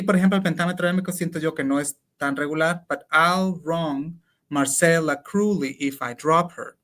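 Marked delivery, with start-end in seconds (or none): 2.9-6.8 slow, syllable by syllable scansion; scanning the meter. Shown as a demonstration. Counting syllables for a colleague, slowly scanning. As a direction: count out each beat of the line. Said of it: "Cuántas sílabas hay".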